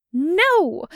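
loud, high protest; urgent high cry of no; sharp no. Acted. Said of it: "Jester nearly hisses".

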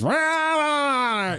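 high mock alien growl; E.T. noises. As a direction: make E.T.'s creepy alien sound. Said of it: "and he goes".

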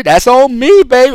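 quoting a rapper. Retold or imitated. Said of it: "in the words of a rapper".

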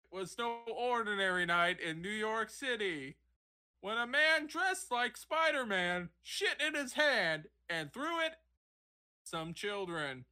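high-pitched parody of a TV reporter; hammed-up field reporter delivery; sideline reporter. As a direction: overdo the on-the-scene report, punching mid-sentence words. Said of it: "that's how every sideline reporter fucking talks".

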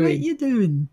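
badly faked Cockney; half-hearted go at Cockney; weakly put-on Cockney question; failed Cockney. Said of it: "I can't even do Cockney".

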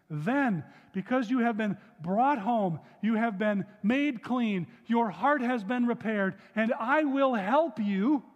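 measured, solemn Bible reading; scripture reading. Acted. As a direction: read the verse out to the congregation. Reads scripture aloud.

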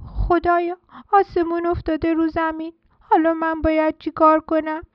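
a tiny chick sure the sky has fallen; lightly voiced chick in a fright; little chick, panicking.

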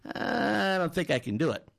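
lightly acted doubtful swimmer; reluctant. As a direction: hesitate on a long "uh", then back out. Swimmer balks at coach's urging.

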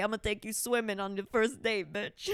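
a lightly voiced macho guy, mock tough; imitating the men. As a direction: throw it out like a cocky dude. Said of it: "Like the men would say".

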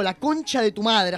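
slow, pointed curse straight at him; cold slow cussing at a teammate; slow deliberate insult. Retold or imitated. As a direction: spell out each word, staring him down. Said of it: "así mirándote".

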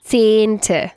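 Zehnte with a long flat e, tsehnte. Shown as a demonstration. Teacher shows Zehnte to the student, long flat e. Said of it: "Con una E plana".

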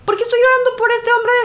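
scolding herself for crying over him; exasperated self-question. Retold or imitated. Woman recalling crying over the leader, asks herself in disbelief. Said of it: "porque dije".

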